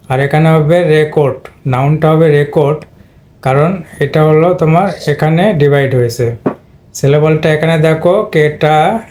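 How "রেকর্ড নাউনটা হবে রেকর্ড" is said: রেকর্ড as REK-ord, short e in the first syllable; noun pronunciation. Shown as a demonstration. Teacher showing students the noun, short-e rek in রেকর্ড. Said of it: "প্রথম syllable নিয়ে নিয়েছে".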